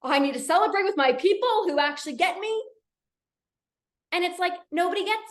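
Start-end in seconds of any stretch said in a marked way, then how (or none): 0.0-2.6 bubbly mock enthusiasm; acted excitement. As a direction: play someone jumping off the walls. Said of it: "jumping off the walls".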